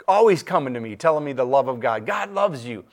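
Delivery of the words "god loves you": mock-sweet, higher voice for the preaching inmates; imitating an earnest inmate. Preacher telling his church how inmates told him, mock-sweet higher voice. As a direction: play the cheerful inmate pushing God's love on him.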